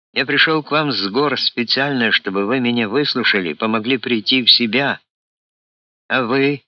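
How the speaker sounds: an outraged colonel demanding to be heard; indignant outburst. Acted. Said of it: "возмутился полковник".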